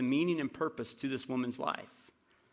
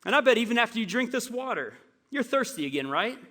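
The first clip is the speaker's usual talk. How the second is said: teasing Jesus; 5 semitones higher than usual. Retold or imitated. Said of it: "it would have sounded something like this".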